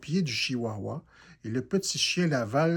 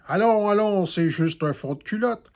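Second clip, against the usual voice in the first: louder, hurrying the elf along; brisk retort; 6 semitones higher, 6 dB louder than usual. A narrator's reading. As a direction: chivvy him on. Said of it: "Le Père Noël réplique".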